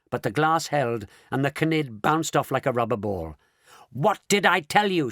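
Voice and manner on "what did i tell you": loud, high gleeful shout. A narrator's reading. Mr Wonka after the crash, cheerful shout. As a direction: shout it in triumph. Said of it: "shouted Mister Wonka".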